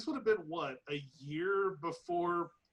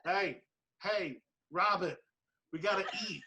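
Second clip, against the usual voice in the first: put-on casual Brooklyn accent, louder at the end; 3 semitones higher, 3 dB louder than usual. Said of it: "With, like, a Brooklyn accent".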